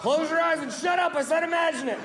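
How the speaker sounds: shouted order to the crowd; mock-bossy shout. Real, not acted. Comic ordering the crowd to imagine it, shouting. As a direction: bark it at the audience like a drill sergeant. Commanding the audience.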